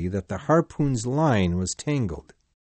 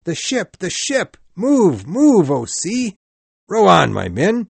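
high, frantic cries of desperation; urgent captain crying out, much higher; wild shout; 9 semitones higher, 6 dB louder than usual. A narrator's reading. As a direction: shout it wildly, pitch way up. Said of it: "shouted Ahab wildly".

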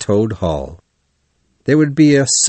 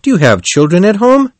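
concerned, raised pitch and volume; kindly question; 9 semitones higher, 6 dB louder, faster than usual. A narrator's reading. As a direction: ask with kind concern. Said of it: "said the man kindly".

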